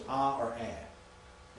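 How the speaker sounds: "ah" long, then "a" short; long and short vowel. Shown as a demonstration. Teacher showing students two alpha sounds, long and short vowel. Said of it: "if it's short, it's a".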